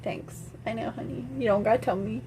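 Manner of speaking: soft, offhand self-satisfied aside; mock smug reply. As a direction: accept praise softly and coolly. Smug reply to compliment, retold.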